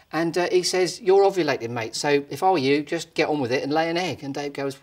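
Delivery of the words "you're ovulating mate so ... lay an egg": loud, matey rooster advice; bossy rooster telling him what to do; cocky cockerel. Acted. Cockerel advising Dave.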